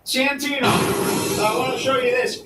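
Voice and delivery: mocking high voice. Mock high voice continues.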